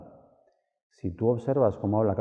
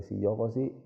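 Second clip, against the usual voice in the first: closed voice; 3 dB quieter than usual. Shown as a demonstration. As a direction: voice squeezed shut in the throat. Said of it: "la voz se me cierra".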